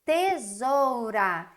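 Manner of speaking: tesoura said very slowly, syllable by syllable; slow sounding out. Shown as a demonstration. Teacher sounding out a word to spell. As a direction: stretch tesoura out. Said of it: "pra escrever tesoura".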